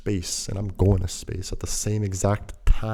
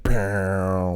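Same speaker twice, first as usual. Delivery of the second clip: loud, drawn-out mimicked power chord; imitated guitar chord; 4 dB louder than usual. Storyteller voicing a freeze-frame movie's guitar sting, imitated chord. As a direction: mouth a big ringing guitar hit. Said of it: "with the big guitar chord".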